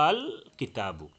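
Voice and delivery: আল drawn out as a long steady "aaal" before কিতাবু; long madd. Shown as a demonstration. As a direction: hold the opening vowel of আল very long, then কিতাবু. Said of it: "তিন আলিফ লম্বা করে পড়লে".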